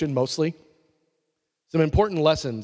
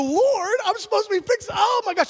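desperate cry. Retold or imitated. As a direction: cry out to the Lord in panic. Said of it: "I go".

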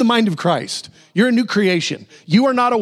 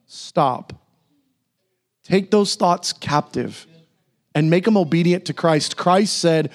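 normal talking voice

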